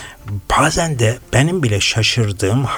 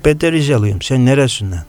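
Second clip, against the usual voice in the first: put-on Black Sea accent; 3 dB louder than usual. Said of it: "Karadenizli abimiz".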